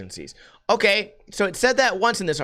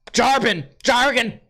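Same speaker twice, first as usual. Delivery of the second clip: higher, forceful blurt of one word; frustrated outburst; 7 semitones higher, 4 dB louder than usual. Real, not acted. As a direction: bark it out in frustration after tripping on it.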